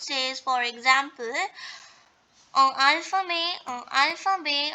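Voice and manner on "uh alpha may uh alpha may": "alpha may" with the final T dropped; silent final consonants. Shown as a demonstration. French teacher reading examples, "alpha may" with silent T. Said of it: "We have not pronounced T here".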